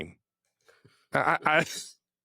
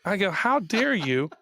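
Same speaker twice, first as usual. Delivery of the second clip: higher, slower mock outrage; retold indignant scolding; 5 semitones higher, slower than usual. Tennis dad rebukes the screaming fans, higher and slower in retold indignation. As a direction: scold them like an offended parent, drawn out.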